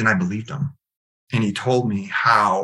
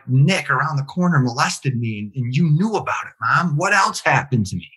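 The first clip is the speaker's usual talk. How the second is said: raised pitch, pressing retold accusation; insistent confrontation; 4 semitones higher than usual. Son confronting mom about his past, insistent. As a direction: push for an answer, pitched up.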